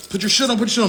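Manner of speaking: high, urgent retold order; lightly acted repeated command; drill sergeant. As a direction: imitate a sergeant rushing a recruit. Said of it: "He's trying to tell me".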